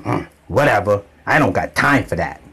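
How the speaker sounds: dismissive brush-off. Retold or imitated. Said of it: "That's how she talks to me".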